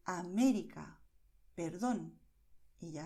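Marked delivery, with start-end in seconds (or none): 0.1-1.0 América with MÉ punched; América, deliberate, weight on the second syllable; stressed syllable demo. Shown as a demonstration. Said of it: "destacas esa sílaba". 1.6-2.2 perdón with weight on DÓN; perdón, deliberate, DÓN held; stressed syllable demo. Shown as a demonstration. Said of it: "destacas esa sílaba".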